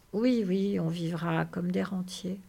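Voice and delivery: soothing, unexcited echo; calm agreement. Acted. George confirms the dream to Lénie, calm.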